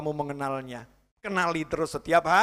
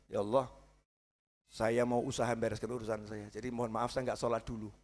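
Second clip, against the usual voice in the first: soft, lower apologetic plea; sheepish quiet prayer; 8 semitones lower, 11 dB quieter than usual. Retold or imitated. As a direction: meekly excuse yourself to God. Excuse prayer to skip prayer. (doa minta maaf yang lirih)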